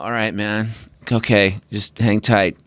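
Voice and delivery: slow, laid-back stoned pilot. Retold or imitated. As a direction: drawl it out, totally unbothered. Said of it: "really stone voice on the air".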